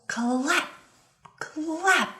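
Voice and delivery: high and punchy, like thunder; big sound word. Shown as a demonstration. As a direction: make each clap boom high. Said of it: "these words are bigger here".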